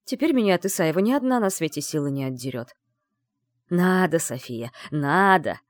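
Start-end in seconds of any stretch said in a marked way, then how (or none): 3.7-5.6 lightly voiced menacing maniac; a hint of a creepy maniac. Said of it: "голосом маньяка ответил Андрей".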